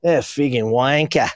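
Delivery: lightly imitated New Zealand accent, dropped final r. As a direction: do a hint of a Kiwi movie-set worker. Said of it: "One, one guy was like".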